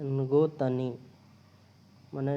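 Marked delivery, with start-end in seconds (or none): 0.0-1.0 नको तनी said as a Chinese sentence, नको first and तनी after; teacher reads out नको तनी to show that word order; word order demo. Shown as a demonstration. A Hindi teacher showing students a Chinese sentence, demo reading. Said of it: "वाक्य में बोलेंगे".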